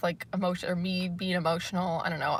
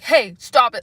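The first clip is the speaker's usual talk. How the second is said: pretend scolding; 3 semitones higher, 9 dB louder, slower than usual. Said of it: "imagine if I was like".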